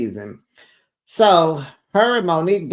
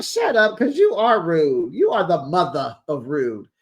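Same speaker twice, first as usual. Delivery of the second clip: playful sassy scold; 2 semitones higher than usual. Real, not acted. Host scolds Gizelle directly.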